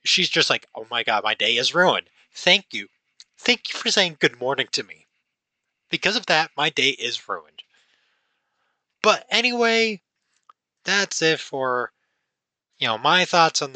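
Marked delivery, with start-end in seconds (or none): 0.8-7.6 sarcastic grumble. Retold or imitated. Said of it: "so pissed off".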